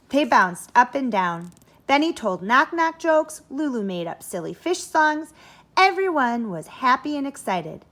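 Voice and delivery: put-on building excitement as the kids ride the bus; excited reading. A narrator's reading.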